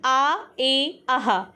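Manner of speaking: आ, ए, आहा as separate drawn-out vowel sounds; sound endings spelled out. Shown as a demonstration. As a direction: demonstrate each ending sound आ, ए, आहा clearly. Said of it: "ये trick आपको पता चल गई". (ध्वनियाँ अलग-अलग साफ़ बोलकर दिखाना)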